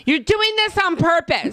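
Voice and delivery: high, slow, drawn-out accusation; exasperated mock accusation. Girlfriend accusing boyfriend, hammed-up exasperation. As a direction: stretch each word in hammed-up outrage.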